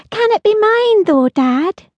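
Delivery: put-on high, eager girl's voice; a child begging to keep a pet; pleading little girl. Holly pleading with her father.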